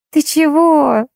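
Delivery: high, mildly amused question; giggly. A narrator's reading. Girl amused that the boy mistook the dog for a cat, giggly. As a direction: tease in a high voice, a touch giggly. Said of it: "захихикала Лизавета".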